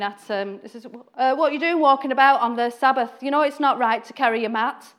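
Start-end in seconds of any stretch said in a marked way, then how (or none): 1.1-4.9 moaning complaint. Retold or imitated. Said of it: "the Pharisees then start moaning".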